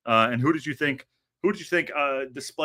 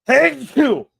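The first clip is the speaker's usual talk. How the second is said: sneeze; 12 semitones higher, 11 dB louder than usual. Real, not acted. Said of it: "I have to sneeze".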